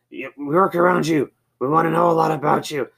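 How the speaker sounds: lightly voiced coworker. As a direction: nudge him playfully. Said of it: "and so he was like".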